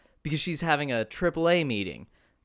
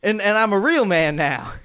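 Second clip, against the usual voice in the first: hammed-up whiny Bubba; 6 semitones higher, 5 dB louder than usual. Bubba voiced, pleading, defensive.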